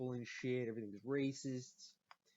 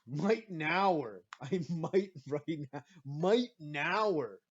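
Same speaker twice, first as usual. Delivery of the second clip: triumphant rhyme; 2 semitones higher, 6 dB louder, much slower than usual. Retold or imitated. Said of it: "trying rhymes".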